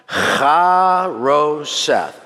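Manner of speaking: Charoseth with a rasping guttural ch at the start, drawn out very slowly; throaty ch sound. Shown as a demonstration. Rabbi teaching the congregation to say Charoseth, slow guttural ch. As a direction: scrape the ch of Charoseth in the throat, stretched syllable by syllable. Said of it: "you gotta get the ch in there".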